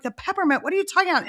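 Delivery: retold disbelief, pitch jumping up; baffled mom. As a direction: act out a bewildered parent questioning a child. Mom acts baffled reply to child.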